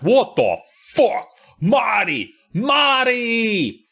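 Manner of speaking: high, loud frightened yells; panicked shouting. Acted. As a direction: scream his name in panic. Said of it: "She's just like".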